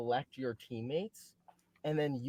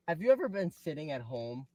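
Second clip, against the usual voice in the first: infomercial voice; 2 semitones lower than usual. Acted. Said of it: "This does sound like an infomercial".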